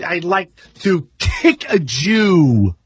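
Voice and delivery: slow, drawn-out Woody Allen hard K; a light Woody Allen imitation, very slow; Woody Allen impression. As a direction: mimic Woody Allen crunching the K. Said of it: "He goes".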